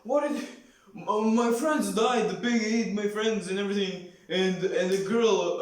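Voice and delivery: a bandit begging in a frenzy after losing his friends; panicked bandit. Retold or imitated. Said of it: "and he's like".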